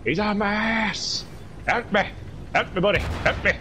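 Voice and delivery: high, panicky plea; panicked. Real, not acted. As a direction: beg for help in panic. Chased by enemy.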